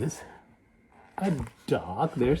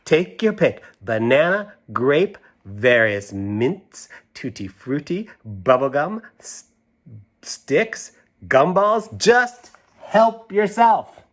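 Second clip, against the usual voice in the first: generous mom offering; 4 semitones higher, 4 dB louder, slower than usual. Acted. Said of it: "the mom is saying".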